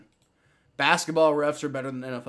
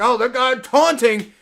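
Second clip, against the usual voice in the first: imitated accuser; 6 semitones higher, 8 dB louder than usual. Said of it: "they're gonna be like".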